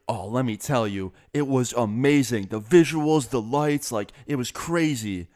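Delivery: gushing imitation of an excited mom; mildly hammed-up enthusiasm; enthusiastic mom. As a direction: retell her raving, with drawn-out emphasis. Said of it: "She was so enthusiastic".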